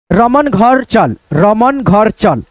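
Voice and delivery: each word spaced out slowly; teacher dictating a sentence slowly; slow dictation. Shown as a demonstration. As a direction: dictate it for the class to write. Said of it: "हम आपको बोलते हैं वाक्य".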